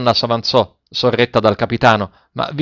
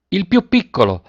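high, insistent sailors' call; narrated cry of imperious impatience; imperious, impatient shout; 8 semitones higher than usual. A narrator's reading. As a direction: demand it impatiently, pitch well up. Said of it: "gridarono in coro i marinai con imperiosa impazienza".

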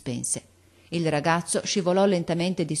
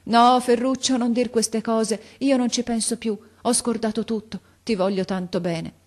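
higher, fervent protest of affection; pleading grandmother; 7 semitones higher, 4 dB louder than usual. A narrator's reading. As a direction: hush his guilt with heartfelt insistence. Grandmother protests her love. (nonna accorata che rassicura con fervore)

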